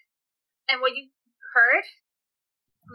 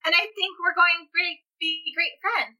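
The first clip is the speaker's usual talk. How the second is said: put-on child voice; 5 semitones higher than usual. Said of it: "sounds like a child almost".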